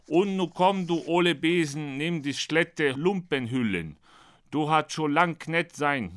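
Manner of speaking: lifted, sing-song metrical chant; poem recitation. Acted. Author recites his Ultradeutsch parody of the poem, sing-song. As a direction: recite with a bouncing verse rhythm.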